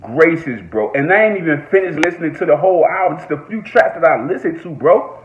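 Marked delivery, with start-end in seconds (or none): 0.0-0.6 stunned damn. Retold or imitated. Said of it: "I said".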